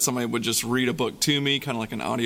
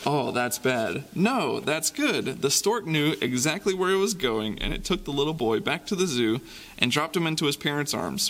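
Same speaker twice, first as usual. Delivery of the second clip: put-on lively storybook reading for kids; reading to children. A narrator's reading. Reads picture book to kids.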